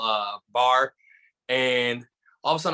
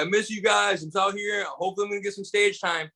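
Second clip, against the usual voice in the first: acted higher-pitched voice to friends back home; retold phone call; 7 semitones higher than usual. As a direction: raise the pitch, imitating yourself on a call to pals.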